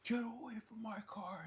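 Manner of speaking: high, put-on shout of a charging man; lightly voiced angry car owner; mock angry owner. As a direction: charge in like a bull. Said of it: "full Matador style".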